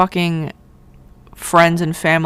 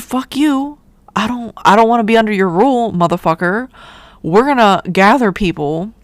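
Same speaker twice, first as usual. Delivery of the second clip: high, fast, cocky mock shout at the king; mock defiant pilgrim; 4 semitones higher than usual. Pilgrims telling the king off, high fast mock defiance. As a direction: play the rebel settler sneering at the crown.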